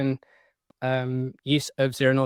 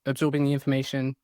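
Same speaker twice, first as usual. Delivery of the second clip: quick unvoiced whisper; faster than usual. Shown as a demonstration. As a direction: whisper it quickly under your breath. Phrase repeated, second take whispered.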